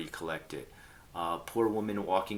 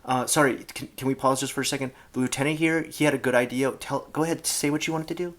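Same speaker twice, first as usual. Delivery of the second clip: loud, high polite interruption; 7 semitones higher, 9 dB louder, faster than usual. Retold or imitated. Player interrupting the captain to help the shy lieutenant, loud and high. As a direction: cut in loudly to pause the game. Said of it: "I'd be like".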